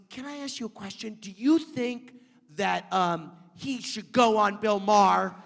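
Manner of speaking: lightly voiced mom. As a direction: mom asking a worried question, lightly mimicked.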